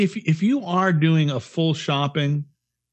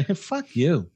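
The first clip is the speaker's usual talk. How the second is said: mock curse; 3 dB quieter, slower than usual. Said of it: "that will say".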